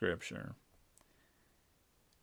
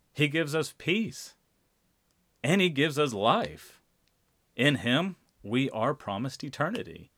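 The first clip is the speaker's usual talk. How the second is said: higher and louder, ringing proclamation; preaching climax; 4 semitones higher, 4 dB louder than usual. Real, not acted. Pastor proclaiming Jesus gives peace to congregation, loud and high. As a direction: lift it up and proclaim it.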